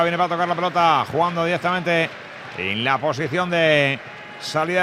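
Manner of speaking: brisk, running match commentary; play-by-play. Real, not acted. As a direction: call every pass as it happens. Live radio play-by-play. (narración deportiva en directo)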